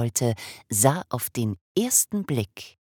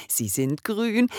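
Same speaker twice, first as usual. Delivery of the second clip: "sie sind grün" slower, drawn out, still high; savoured repeat; 10 semitones higher, 3 dB louder, slower than usual. Acted. Father repeating his delight over the eyes, slowly savouring. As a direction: linger on "grün" with pride.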